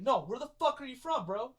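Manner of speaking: mock belligerent questioning; retold yelling. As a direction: imitate someone getting in your face. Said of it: "she yelled in my face".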